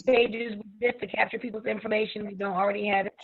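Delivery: glitchy robotic call audio. Real, not acted. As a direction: voice garbled like a robot on a bad connection. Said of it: "You sound robotic".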